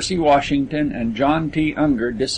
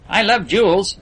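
enthusiastic; 6 semitones higher than usual. A narrator's reading. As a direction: gush about the jewels. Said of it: "agreed Percy enthusiastically".

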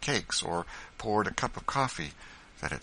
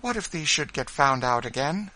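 put-on young boy; 8 semitones higher, 4 dB louder than usual. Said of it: "said Simeon second".

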